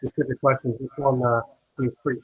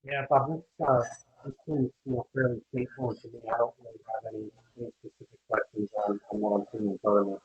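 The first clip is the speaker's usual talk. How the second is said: muffled, choppy bad connection; like calling from inside a tunnel. Real, not acted. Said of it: "You sound like you're in a, in a tunnel somewhere".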